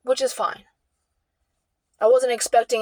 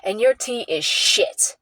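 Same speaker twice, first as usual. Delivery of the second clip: slow, lightly mocking retelling of her insult; quoting mom's nasty words with mild contempt; mimicking mom's insult; slower than usual. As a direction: drawl her insult out slowly, a hint of scorn. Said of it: "what she says".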